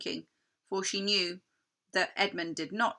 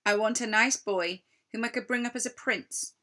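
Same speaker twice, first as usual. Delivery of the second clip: tempting queen. Acted. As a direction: dangle the prize.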